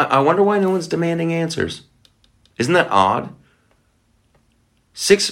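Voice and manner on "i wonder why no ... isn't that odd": high, faux-naive musing; sarcastic, wide-eyed wondering; mock wonder. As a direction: feign innocent puzzlement.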